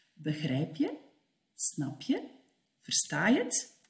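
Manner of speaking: quiet, low "Begrijp je? Snap je?"; soft quick questions. Shown as a demonstration. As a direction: ask softly, offhand. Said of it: "Dat is drie keer hetzelfde". (zacht en snel)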